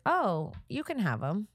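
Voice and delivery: slow, drawn-out casual handover; nonchalant concession. Retold or imitated. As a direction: brush it off, taking your time. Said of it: "just like that".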